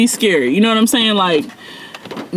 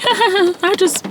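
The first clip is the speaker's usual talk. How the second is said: mock open laughter; 12 semitones higher than usual. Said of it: "you're just openly like".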